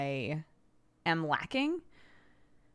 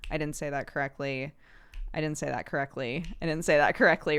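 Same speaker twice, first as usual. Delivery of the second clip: nagging inner voice; faster than usual. Retold or imitated. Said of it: "my brain will be constantly going".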